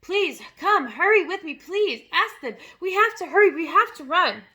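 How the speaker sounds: urgent loud high pleas; cried. A narrator's reading. Matilda urging Miss Honey to hurry, loud and urgent. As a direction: hurry her along. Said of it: "Matilda cried".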